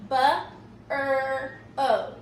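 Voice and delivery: "Bu, er, o" as three isolated sounds; sounded out. Shown as a demonstration. Teacher checking the sound count, "Bu, er, o" separately. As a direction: give each sound of "Bu, er, o" its own beat. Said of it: "say the word and count the sounds".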